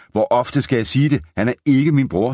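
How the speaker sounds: high-pitched, exasperated objection; exasperated protest. A narrator's reading. Jim protests repeated mistake to bartender.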